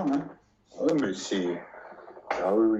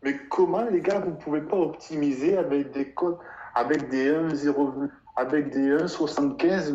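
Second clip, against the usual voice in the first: exasperated; 2 semitones higher, 4 dB louder than usual. Retold or imitated. Exasperated plea to football bettors.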